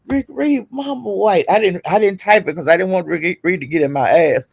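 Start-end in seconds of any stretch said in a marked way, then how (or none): 0.1-1.4 teasing quote. Retold or imitated. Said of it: "I was saying".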